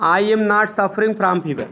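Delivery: slow, word by word; slow dictation. Shown as a demonstration. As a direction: dictate it slowly. (धीरे-धीरे लिखवाना)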